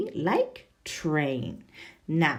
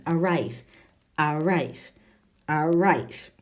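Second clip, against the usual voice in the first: arrive with the weight on RIVE; a-RIVE, repeated steadily for the class; teacher drilling arrive, light stress on RIVE; stress on second syllable; 3 semitones lower than usual. Shown as a demonstration. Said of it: "It's the second".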